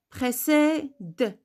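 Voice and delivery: Précède with a released d at the end; mute final E. Shown as a demonstration. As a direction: split off the closing d of Précède, no full 'euh'. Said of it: "Comment je vais prononcer cette syllabe?".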